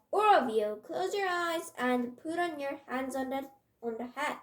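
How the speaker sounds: loud burst, then firm instruction; stern teacher's command; stern order. Acted. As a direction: order the class, hitting the opening hard. Red-faced teacher orders the class.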